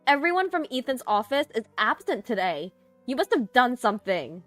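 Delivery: high-pitched, indignant accusation; accusing outburst. A narrator's reading. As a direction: burst out and blame her. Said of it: "She burst out".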